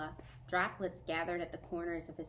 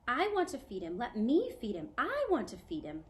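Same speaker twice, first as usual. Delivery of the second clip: put-on higher and louder, insistent child begging; eager pleading; 6 semitones higher, 6 dB louder than usual. A narrator's reading. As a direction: beg to do it yourself, pushing harder each time. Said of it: "Bat said".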